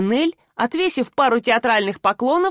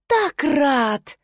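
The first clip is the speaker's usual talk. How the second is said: mocking; 6 semitones higher than usual. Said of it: "громко и чётко выговаривать каждое слово".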